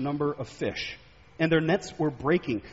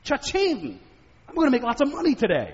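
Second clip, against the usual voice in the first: a mild show of thrilled delight; lightly played excitement; amazed; 7 semitones higher than usual. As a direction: gloat over the big catch. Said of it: "He's amazed".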